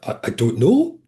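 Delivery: lightly voiced northeast England accent; a hint of a Geordie accent. Policeman answering after the incident, light northeast England accent. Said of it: "northeast of England accent".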